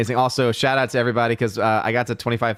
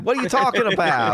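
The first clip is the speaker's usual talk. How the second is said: laughing; 10 semitones higher than usual. Real, not acted. Laughing at the bit.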